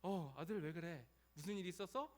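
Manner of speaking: lightly voiced concerned mother; soothing mother. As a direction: coax an upset child. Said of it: "이렇게 타이르는 것처럼". (엄마가 타이르듯)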